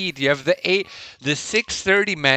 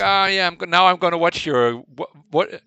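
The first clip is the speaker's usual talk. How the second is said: Southern drawl; 3 semitones higher than usual. Retold or imitated. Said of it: "sometimes they can have a little drawl to them".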